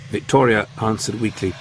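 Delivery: ordinary delivery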